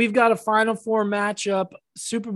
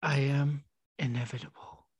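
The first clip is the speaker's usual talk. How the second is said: whispered Thanos; 5 semitones lower, 7 dB quieter than usual. Retold or imitated. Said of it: "why does he have to whisper it".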